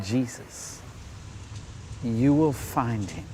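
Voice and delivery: slow, measured and tender; wise gentle reply. Retold or imitated. Mother Teresa answering the young man, slow and tender.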